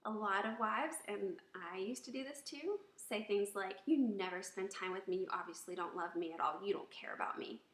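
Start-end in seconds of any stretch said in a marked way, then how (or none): 3.9-7.6 reproachful complaint, sinking in pitch; blaming and negative. Shown as a demonstration. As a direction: accuse the husband, hurt. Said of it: "That is very blaming and negative".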